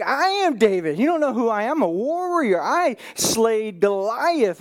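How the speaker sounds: indignant boast, leaning on key words; angry. Retold or imitated. David boasts that he slayed Goliath, indignant. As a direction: imitate a proud warrior taking offense. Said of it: "David is angry".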